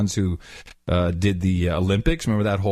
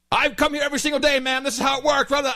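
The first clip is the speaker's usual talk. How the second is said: almost yelling; 14 semitones higher, faster than usual. Retold or imitated. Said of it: "the guy was just like".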